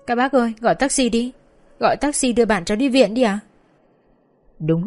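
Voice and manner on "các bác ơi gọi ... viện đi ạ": high, pleading cry for a taxi; begging. Acted. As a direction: implore them again, desperate. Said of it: "luôn miệng van xin". (van xin gọi taxi đưa người yêu đi viện)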